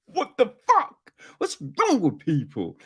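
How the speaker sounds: exasperated. Retold or imitated. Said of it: "he was just like".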